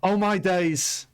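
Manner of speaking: slow, high British "Oh my days" exclamation; British accent. Shown as a demonstration. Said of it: "That was a British accent".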